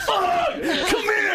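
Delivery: high-pitched yell through laughter; mock violent yell. Guest re-enacts comedian ripping off clown nose, mock violent yell. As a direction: imitate a raging parent, cracking up.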